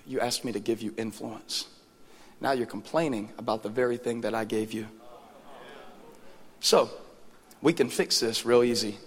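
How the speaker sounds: lightly voiced divine rebuke; measured, understated telling-off; Holy Spirit speaking. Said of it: "but just like this".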